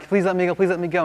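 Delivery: a touch of begging; mock begging. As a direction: lightly imitate someone pestering with pleas. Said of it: "Balaam kept begging and begging God".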